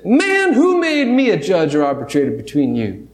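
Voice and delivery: lightly put-on southern accent, casual; a hint of a southern accent, easygoing. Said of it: "pictured Jesus with kind of a southern accent".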